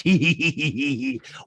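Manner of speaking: mock castmate laugh; imitated cackle. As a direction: burst out in a staccato pretend laugh. Acted laugh within retold scene.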